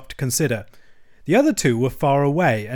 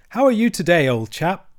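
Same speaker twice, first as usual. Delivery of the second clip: bright, louder greeting with higher opening; cheerful; 6 semitones higher, 5 dB louder than usual. A narrator's reading. Rat greets Toad at his bedside, cheerful. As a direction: hail a sick friend cheerily. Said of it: "inquired the rat cheerfully".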